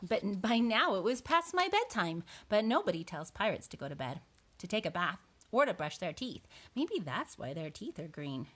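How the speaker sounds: lively picture-book narration; reading to children. A narrator's reading. Boy tells of joining pirates, storybook narration. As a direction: read it as the boy's own tale.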